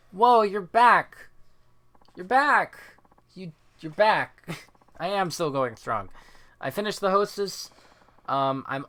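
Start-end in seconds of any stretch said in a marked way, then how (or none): 0.1-4.6 loud, high, drawn-out welcome; whooping, stretched-out hello; excited greeting. Real, not acted. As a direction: greet them with big excitement. Greets a returning viewer.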